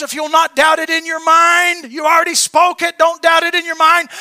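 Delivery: loud, emphatic scripture quote; quoting scripture. Retold or imitated. Preacher quoting scripture to the church, loud and emphatic. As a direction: proclaim the verse to the congregation. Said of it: "The scripture says".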